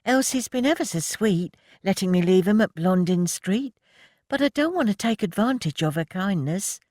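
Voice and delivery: high, grudging concession; young woman admitting the point. A narrator's reading. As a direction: give in reluctantly. Voicing Rose, high.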